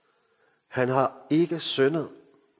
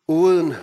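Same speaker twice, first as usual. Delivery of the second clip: "uden" hit hard, much louder and higher; emphatic uden; 5 semitones higher, 8 dB louder than usual. Acted. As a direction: hammer home the last "uden". Building list of without, climax. (prædikant slår hårdt på "uden")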